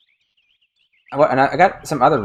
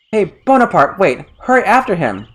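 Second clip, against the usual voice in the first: raised, urgent call after the dog; mildly scolding, high and hurried; mild angry call; 5 semitones higher than usual. Retold or imitated. The girl calls after Bonaparte, a touch angry. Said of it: "more angry in Japanese".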